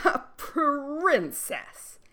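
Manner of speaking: a hint of a jolly old king; slow, amused king's voice; roaring tyrant king. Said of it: "The king roared with laughter".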